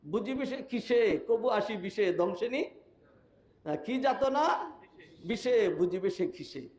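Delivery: slow, sing-song reciting of verse; a preacher slowly reciting a poem mid-sermon; poem recital. Shown as a demonstration. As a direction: recite the couplet slowly like a poet. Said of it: "ওই যে কবি কয় না".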